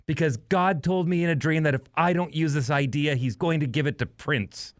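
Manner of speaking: high-pitched singer impression. Pop star explaining himself to the stage director, high voice. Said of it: "Michael Jackson says".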